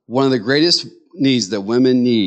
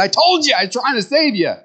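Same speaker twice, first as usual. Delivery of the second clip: exaggerated dad gently scolding; mock fatherly scolding; 11 semitones higher than usual. Father telling his daughters he tried to protect them, high mock scold. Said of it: "I said".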